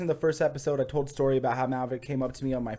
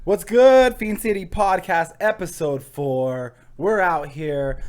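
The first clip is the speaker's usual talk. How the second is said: hype host greeting; 3 semitones higher, 7 dB louder, slower than usual. Acted. Greeting the audience at episode start, hyped. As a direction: pump up the crowd.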